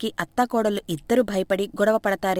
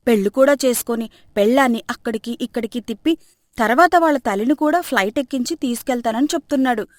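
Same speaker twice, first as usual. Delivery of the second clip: louder scolding mother-in-law; 3 semitones higher, 4 dB louder than usual. Acted. Mother scolds her son, mildly louder taunting. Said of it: "నోటికి వచ్చినట్టు తిడుతూ".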